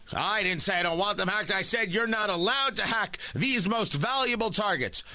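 lightly voiced indignant president; Joe Biden. President correcting the Russian, Joe Biden impression. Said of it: "how's my Joe Biden impression".

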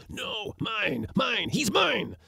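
very high, squealing claim; high, frantic possessiveness; rival spirit voice. A narrator's reading. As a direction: insist greedily in a thin high voice. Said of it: "said another voice".

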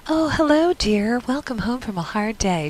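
a hint of old-movie sweetheart; gently mock a doting 1940s wife; lightly voiced movie housewife. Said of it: "black and white movies, and they're all like".

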